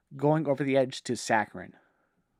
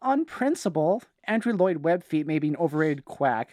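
higher-pitched indignant quote, barely raised; mild mock shout; 4 semitones higher than usual. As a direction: read out a sibling's outburst, half-hearted shout. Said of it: "Louis shouted".

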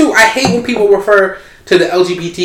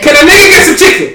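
exasperated plea; 8 semitones higher, 4 dB louder than usual. Acted. Exasperated plea about sold out.

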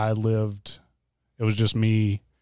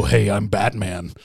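mock Batman; slower than usual. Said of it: "Lindsay will go".

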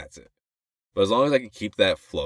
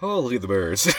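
lightly voiced, higher-pitched narrator; nature narrator; 4 semitones higher than usual. Narrating forest footage, light narrator voice. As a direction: remark on it like a casual documentary host. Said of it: "And be like".

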